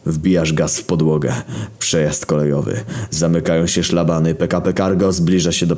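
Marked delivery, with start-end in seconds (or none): none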